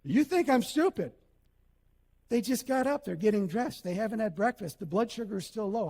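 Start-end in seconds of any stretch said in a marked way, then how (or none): 0.0-1.1 light mocking replay of the accusation; mock echo. Shown as a demonstration. Preacher replays the wife's line for the congregation, mock echo. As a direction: repeat it to show the audience, half-teasing. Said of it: "you can't say that when you're married".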